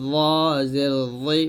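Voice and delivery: ল জের জি, ল said as thick "zaw" at upper teeth; tongue tip to upper teeth for ল and জি; heavy dental za. Shown as a demonstration. Teacher models the heavy letter, ল as a full-mouthed dental sound. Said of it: "উপরে যাতে আগে লাগিয়ে মুখটা উচ্চারণ".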